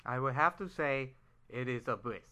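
words round a wad of gum; chewing gum. Real, not acted. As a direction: talk with gum in your mouth. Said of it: "I had gum in my mouth that time".

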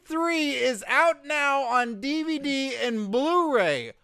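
high, loud squeaky dummy voice; shrill dummy hyping a DVD; squeaky ventriloquist dummy. Pretend. Squeaky puppet voice pitching DVD.

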